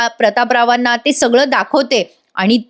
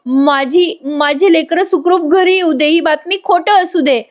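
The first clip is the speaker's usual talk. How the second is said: high, plaintive pleading; mock tearful prayer; 5 semitones higher than usual. Kalpana prays to the goddess for her children, mock tearful. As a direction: imitate a weeping mother begging, without real sobs. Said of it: "कल्पनाताई रडत असतात".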